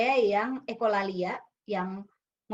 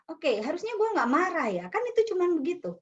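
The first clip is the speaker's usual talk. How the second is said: regulated intonation; 7 semitones higher than usual. Shown as a demonstration. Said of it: "ngatur intonasi bahwa".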